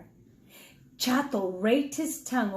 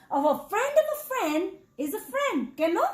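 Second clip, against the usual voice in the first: laughing cheerfully; 7 semitones higher than usual. Acted. Cat cheerfully answers mice.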